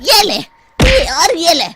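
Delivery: angry beating taunt. Acted. Ghost Kaliya gloating at the sarpanch while beating him. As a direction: taunt him as you land each hit.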